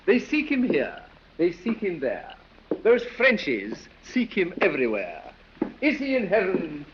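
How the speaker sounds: a fop's lightly sing-song recital, a touch grand; reciting verse. Acted. Dandy recites his verse to the ambassador, lightly theatrical. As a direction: show off the little rhyme to the guest. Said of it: "you must hear my verse".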